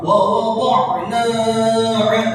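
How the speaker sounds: "Wa wada'na 'anka" with the vowel held too long; too-long take. Shown as a demonstration. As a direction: drag the mad past two counts. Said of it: "itu kepanjangan".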